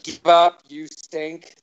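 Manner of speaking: mock harsh insult. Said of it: "anti-inspirational quotes".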